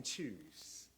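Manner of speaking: low, soft whispered command; low hushed voice. A narrator's reading. Sermon, the inner voice at the fork: hushed whisper. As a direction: breathe the word like an inner voice. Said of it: "a voice whispering".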